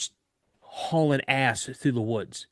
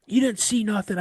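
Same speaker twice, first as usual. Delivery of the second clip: higher, scoffing mock scold; dismissive scolding; 8 semitones higher than usual. Instructor dismissing what the recruit saw, scoffing. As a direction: brush off the claim sternly. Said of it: "he's giving me the business".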